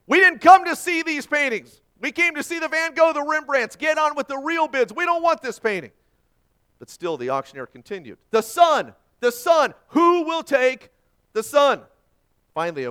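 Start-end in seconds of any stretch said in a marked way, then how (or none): 0.1-5.9 much higher, loud furious yelling; angry shout. A narrator's reading. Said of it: "Another voice shouted angrily, as loud as he could". 8.3-11.9 loud, high auctioneer calls, slowing on "who will take"; calling out bids. A narrator's reading. Auctioneer pleads for a bid.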